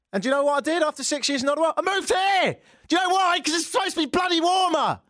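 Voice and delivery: host ranting to listeners about the cold; frustrated rant. Real, not acted. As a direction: let the frustration boil over. Building rant about cold weather.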